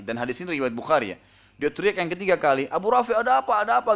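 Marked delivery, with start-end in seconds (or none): 2.7-3.9 much higher and louder, like many people shouting; booming crowd voice. Retold or imitated. Abdullah fakes a crowd's shout to find Abu Rafi, booming. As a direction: boom out as if a crowd were calling. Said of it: "dengan suara gemuruh seakan-akan ramai orang".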